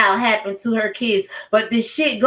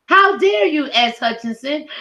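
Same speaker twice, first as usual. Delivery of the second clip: sudden much higher indignant cry; outraged; 5 semitones higher than usual. Real, not acted. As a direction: fling it at her in disbelief. Outraged call-out of S Hutchinson.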